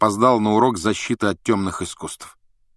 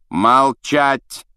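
shouting; 6 semitones higher, 6 dB louder than usual. A narrator's reading. Snape silences class.

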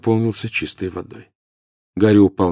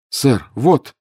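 high, raised call; urgent shout; 6 semitones higher, 4 dB louder than usual. A narrator's reading. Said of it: "крикнул Гарри".

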